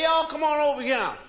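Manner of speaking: loud Mississippi Southern call across the room; Southern drawl. Retold or imitated. Mississippi dude calling the Englishman over, Southern accent. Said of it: "Mississippi dudes would say".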